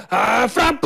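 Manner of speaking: rising goal shout, drawn out; excited goal call. Real, not acted. Goal call in live commentary.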